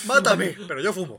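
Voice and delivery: mock defiant yell. Quoting the passenger's cry.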